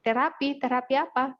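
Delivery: imitating a startled father; retold surprised father asking. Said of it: "Kaget dia".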